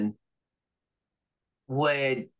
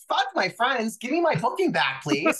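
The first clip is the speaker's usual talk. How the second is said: joking demand; 12 semitones higher than usual. Acted. Joking demand after no offense.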